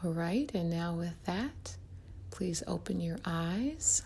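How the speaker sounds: soft-edged, unhurried meditation guide; guided meditation. Acted. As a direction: ease the listener gently into relaxation, leaving room to breathe.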